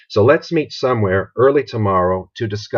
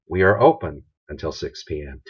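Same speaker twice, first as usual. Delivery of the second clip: positive phrasing; 5 semitones lower than usual. Shown as a demonstration. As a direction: make it sound welcoming. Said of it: "What do we want to stress?".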